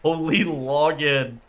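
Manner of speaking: slow drawn-out astonished exclamation; amazed. Real, not acted. Streamer stunned by a word he just heard, amazed. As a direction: stretch it out in disbelief.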